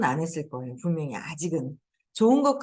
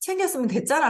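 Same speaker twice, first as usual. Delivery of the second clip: pitched a step, a tone higher; 8 semitones higher than usual. Retelling a reply given after hearing the son had packed it, pitched a tone higher. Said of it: "한 톤 더 업이 돼서".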